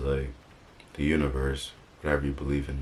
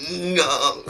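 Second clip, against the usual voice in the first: sharp alarmed no; 13 semitones higher, 5 dB louder than usual. Retold or imitated. Parent rushing to crawling baby.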